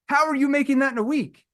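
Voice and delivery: amazed asker. Retold or imitated. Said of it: "A lot of people ask me".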